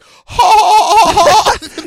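high slow goofy laugh; ha-ha like a cartoon kid. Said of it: "that one kid in the background".

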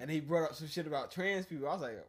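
ordinary talk, nothing marked

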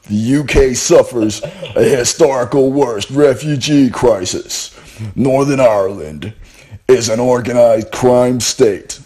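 movie trailer voice. Shown as a demonstration. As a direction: read it like a blockbuster trailer. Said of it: "should have put on my movie voice".

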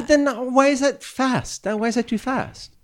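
high, disbelieving questions; incredulous. Real, not acted. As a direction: ask in baffled disbelief.

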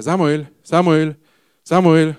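loud slow calling; very loud, slow call of the name. Acted. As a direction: stretch out each call of the name. God calls the boy again.

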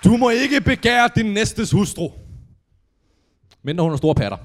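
preacher reading Randers commandments; mock scripture reading. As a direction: proclaim it like a pompous priest.

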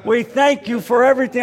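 put-on booming old-fashioned grace in a diner; father's loud prayer. Dad praying grace aloud in a diner, booming. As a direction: pray out loud like a proud preacher dad. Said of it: "my father would make this prayer".

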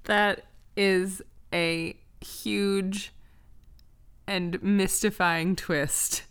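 drawn out, ending in a whisper; slow dramatic hush. Real, not acted. Listener reacting to the story's plot twist, slow dramatic whisper. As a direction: savor the twist like a mystery host. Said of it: "dramatic reaction to plot".

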